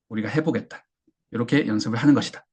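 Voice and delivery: normal talking voice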